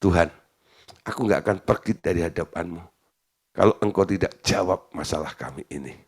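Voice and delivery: soft, low plea to God; persistent prayer. Acted. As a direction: pray it quietly, refusing to let go. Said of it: "Adu ulet dengan Tuhan". (doa memohon dengan suara pelan)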